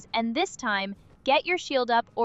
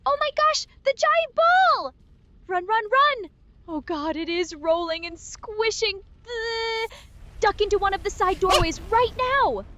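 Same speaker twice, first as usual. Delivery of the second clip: being chased; 6 semitones higher than usual. Real, not acted. Giant ball rolling at them.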